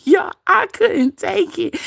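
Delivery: high, slow, through laughter; laughing. Real, not acted. Telling the chat she couldn't take it, laughing. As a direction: struggle to speak while cracking up.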